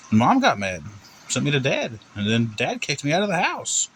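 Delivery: lightly voiced kid, somewhat high; a hint of a boy earnestly explaining himself; innocent little boy. Plays Timmy explaining to cop.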